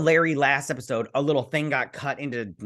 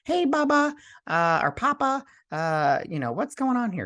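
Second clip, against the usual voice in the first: high squeaky hand-puppet voice, pitched way up; 11 semitones higher than usual. Retold or imitated. Retelling the puppet hand talking to Vic, in a high puppet voice. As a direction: play the talking hand as a cartoonish little puppet. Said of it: "the puppet hand starts talking to him".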